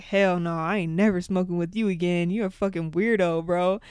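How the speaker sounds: loud, fed-up rant; older brother telling off his coughing sibling, loud and exasperated; mock exasperated brother. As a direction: tell him off, laughing disbelief. Brother refuses to smoke again.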